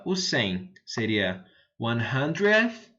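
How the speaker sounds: one hundredth drawn out slowly; one hundredth, slow teacher demo; slow model pronunciation. Shown as a demonstration. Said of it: "que chega no noventa".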